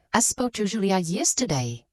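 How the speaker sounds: "yesterday" made the prominent word at the end; stress on yesterday. Shown as a demonstration. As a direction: lean on "yesterday" to mark when it happened. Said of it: "I emphasize this happened yesterday".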